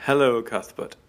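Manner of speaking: rising, pompous friendliness; stiff captain. Retold or imitated. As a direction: play a stiff officer being nice. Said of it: "Captain Peacock says".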